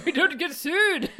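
laughing. Retold or imitated. Echoing quote, laughing.

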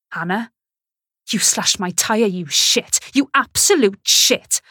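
building to a loud, slow outburst; rising fury at the ex; angry accusation. Acted. Accusing ex over slashed tyre.

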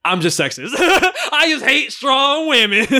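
slow, mock self-accusation; sarcastic. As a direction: say it dripping with sarcasm. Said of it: "talk to Twitter".

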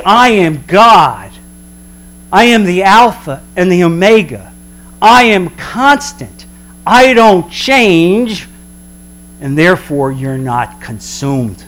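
slow, grand, measured; God proclaiming He is constant, slow and grand. Acted. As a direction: declare each I am with weight. God's declaration voiced.

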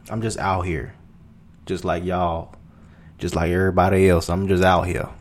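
lightly put-on country twang; country accent. Podcaster showing off to listeners, country accent. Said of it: "You like that country shit".

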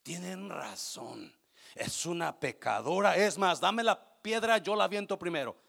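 hammed-up judge grabbing the stone; mock eager stone-thrower. Jesus as he did not answer the accusers, mock eager. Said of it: "No les dijo".

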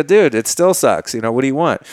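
mildly fed-up retort; exasperated. Retold or imitated. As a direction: push back at a pestering friend. Fed up with repeated asking.

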